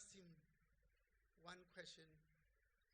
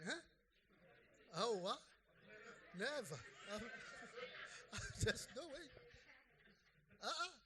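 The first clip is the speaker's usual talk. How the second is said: loud, high, laughing suspicion; laughing disbelief; 6 semitones higher, 9 dB louder than usual. Pretend. Husband reacting to a too-sweet wife, laughing disbelief.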